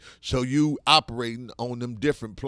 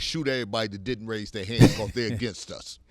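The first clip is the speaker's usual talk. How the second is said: retold militant order. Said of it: "He said".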